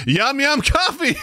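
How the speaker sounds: put-on high, stretched toddler-talk; mock baby talk. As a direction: squeal it playfully as if to a little one. Repeats favorite baby-talk line.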